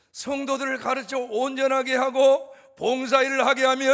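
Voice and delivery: loud, high sustained preaching; preaching at full force. Real, not acted. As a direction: lift the congregation with rising force.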